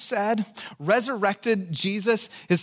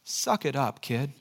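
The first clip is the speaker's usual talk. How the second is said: mock gruff dad; 6 semitones lower, 4 dB quieter than usual. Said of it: "No, I'm kidding".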